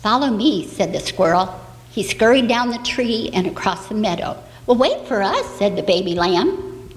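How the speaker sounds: put-on bright storyteller voice for little kids; reading to children. Storyteller reading an Easter tale to the children. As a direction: tell it gently like a bedtime story.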